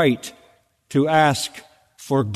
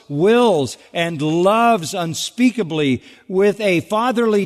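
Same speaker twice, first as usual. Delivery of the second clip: higher-pitched, measured oratory on each phrase; fervent devotional reading; 4 semitones higher than usual. Acted. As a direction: read the tribute with rising, preacherly fervour. Reads a bishop's devotional passage.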